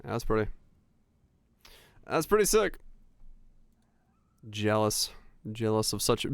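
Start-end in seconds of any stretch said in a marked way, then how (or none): 2.1-2.8 excited. Real, not acted. Admiring aurora photos.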